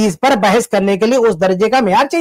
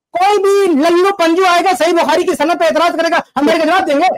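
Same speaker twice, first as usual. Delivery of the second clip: indignant, raised-pitch dismissal; scornful, heated rhetorical questioning; real anger; 4 semitones higher than usual. Real, not acted. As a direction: dismiss the challenger in outrage. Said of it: "ارے غصہ کیوں ہو رہے ہیں؟".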